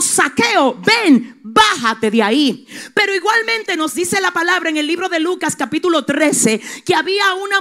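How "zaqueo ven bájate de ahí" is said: loud call, rising on ven; Jesus calling out. Acted. Jesus calls Zaqueo down a second time, loud. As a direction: call him down again, louder. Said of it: "él le dijo".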